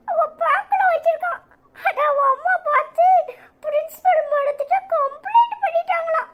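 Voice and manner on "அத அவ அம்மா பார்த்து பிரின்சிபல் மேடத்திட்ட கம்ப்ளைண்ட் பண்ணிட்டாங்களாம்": giggling. Acted. Giggling while telling gossip.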